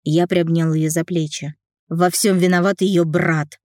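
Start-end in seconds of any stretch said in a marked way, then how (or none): 1.9-3.6 брат spat out, slow and hard; spat last word. A narrator's reading. Nikita blaming her brother, спат out брат. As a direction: spit the word брат with contempt. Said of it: "Последнее слово я практически выплюнул".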